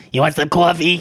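hoarse put-on New Yorker voice. Demonstrating a voice the speaker worked up, in a hoarse New York accent. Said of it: "my hoarse voice and the New Yorker accent".

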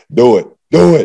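loud, drawn-out scream. Retelling what a teammate screamed at the line: imitating someone screaming. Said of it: "he was screaming at me".

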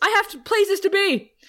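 screaming. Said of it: "So Tara screams".

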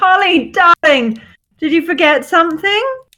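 loud, high calling-out voice. Voicing Lux sauntering down the stairs, calling to Holly: Lux calling out. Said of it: "call out to Holly and be like".

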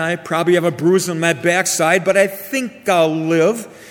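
ordinary delivery

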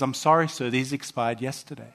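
acted dry, flat, deadpan clerk voice. Retelling a ticket clerk refusing expired tickets: imitating a deadpan clerk. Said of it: "the lady with a straight face says".

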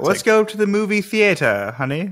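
fancy, proper pronunciation. Trying out a fancy pronunciation of theater for a joke: fancy proper pronunciation. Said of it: "So fancy".

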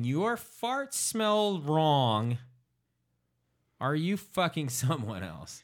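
put-on straight-faced, completely serious, earnest delivery. Retelling a wife confronting her husband: imitating a straight-faced accusation. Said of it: "straight-faced, she says that to him".

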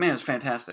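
ordinary talk, nothing marked

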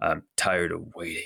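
deep, gruff character voice. Narrating two voices heard in a scene, the first in a lower gruff voice. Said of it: "You hear a lower gruff voice saying".

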